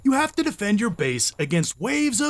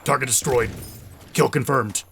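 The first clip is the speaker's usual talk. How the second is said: military voice; 7 semitones lower than usual. Retold or imitated. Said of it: "like, military".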